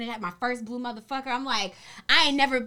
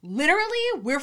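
high, loud put-on white girl voice; 6 semitones higher, 6 dB louder than usual. Pleading with the dorm mother, white girl voice. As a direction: protest like an indignant white girl. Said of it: "I got my white girl voice".

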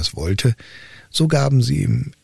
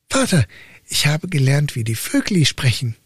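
a hint of a timid boy, raised pitch; lightly voiced simple son; 5 semitones higher than usual. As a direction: answer like a dull, earnest youth. Son answers his father.

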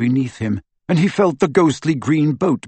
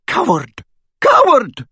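building to a high furious cry; 13 semitones higher, 6 dB louder, slower than usual. A narrator's reading. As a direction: hurl the word twice, louder. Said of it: "he heard McGonagall cry".

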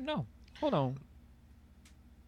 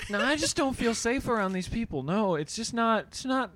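white guy voice. Retold or imitated. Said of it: "white voice".

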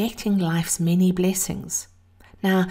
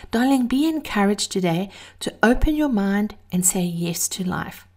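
breathy vintage purr. Real, not acted.

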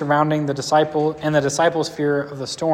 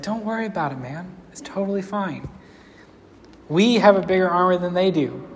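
laid-back, softer, unbothered Elijah; super chill; 3 semitones higher, 3 dB quieter than usual. Retold or imitated. Elijah calming his panicked servant, softer and super chill. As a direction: shrug it off like a sleepy friend. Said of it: "super chill".

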